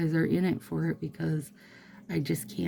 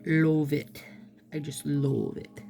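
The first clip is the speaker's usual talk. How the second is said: bad Dracula accent. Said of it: "I think that was a Dracula accent".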